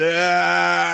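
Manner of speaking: slack drawn-out groan, imitated; Dan Aykroyd. Slumped in the wheelchair after puking, imitated film groan. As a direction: act out a slumped, wordless moan. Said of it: "I look like Dan Aykroyd from fucking Trading Places".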